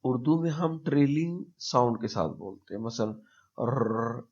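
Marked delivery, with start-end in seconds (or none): 3.6-4.2 a rolled र, drawn out slowly; trilled Urdu R. Shown as a demonstration. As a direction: roll the र the Urdu way. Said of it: "इस तरह हम बोलते हैं".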